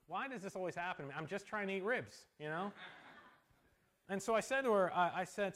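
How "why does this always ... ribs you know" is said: quick, put-upon grumble; mock exasperation. Pastor grumbling to himself over ribs, mock exasperated. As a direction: mutter it like a put-upon diner.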